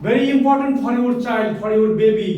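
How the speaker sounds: very slow, every word weighed; slow earnest emphasis; slow emphatic English. Shown as a demonstration. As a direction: drive home the importance to the parents. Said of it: "emphasises importance to parents".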